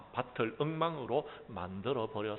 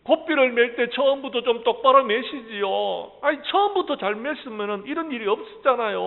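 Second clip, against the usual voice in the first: much higher, louder shouting son; angry shout; 11 semitones higher, 11 dB louder than usual. Acted. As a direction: yell the blame at the father. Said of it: "하고 소리를 질러댑니다".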